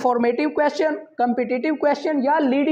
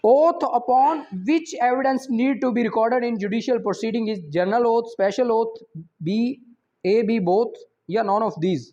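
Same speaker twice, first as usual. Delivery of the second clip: slow, careful reading of an exam question; measured quiz reading; much slower than usual. Acted. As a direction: read each option out deliberately. Reads exam question slowly.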